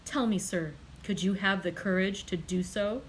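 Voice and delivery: violent outburst. Acted. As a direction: lash out at the one holding you back. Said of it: "changing his expression of calmness for one of violence".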